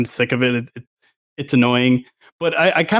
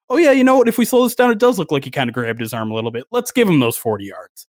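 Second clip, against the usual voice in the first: mock referee voice. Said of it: "all these challenges are like".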